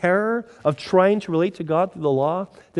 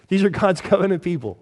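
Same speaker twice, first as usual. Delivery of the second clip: louder emphasis; 4 semitones higher than usual. Shown as a demonstration. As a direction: stress on are, said louder and higher.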